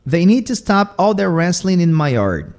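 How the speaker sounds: "wrestling" ending in N, loud and high; G dropped. Shown as a demonstration. Teacher giving a Southern example, "wrestling" without its G. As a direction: drop the G on "wrestling", saying "wrestlin". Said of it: "tirando o G".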